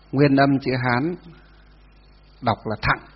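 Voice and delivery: slow, drawn-out dictation; dictating. Real, not acted. Teacher giving students a note to write, dictating. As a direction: hold each syllable for the note-takers.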